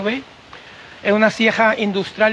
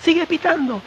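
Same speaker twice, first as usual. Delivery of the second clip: calling out; 6 semitones higher than usual. Retold or imitated. David calling down the hillside to Noel, raised call. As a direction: call out to be heard from far up the hill. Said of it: "él empieza a gritar".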